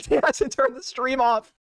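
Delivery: slow, laughing through the words; laughing repeat. Real, not acted. Watching her rant still live, laughing slowly. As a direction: say it again while cracking up.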